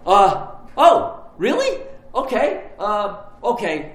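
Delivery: sudden high squeak of surprise on really; taken aback, then gathering himself; John surprised that anyone asked, stammering; caught off guard. Retold or imitated. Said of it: "John's like".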